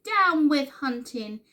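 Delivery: high, loud hooted slogan; hooting. A narrator's reading. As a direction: call it out like a rallying cry. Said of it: "For he hooted".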